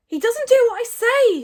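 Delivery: loud, high protest; high, shouted complaint; Hiccup. A narrator's reading. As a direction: wail it helplessly at full volume. Hiccup protesting amid the uproar.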